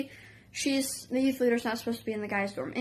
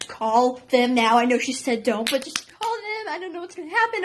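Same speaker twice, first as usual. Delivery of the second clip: panicked urging; 4 dB louder than usual. Retold or imitated. Katie's panicked urging retold.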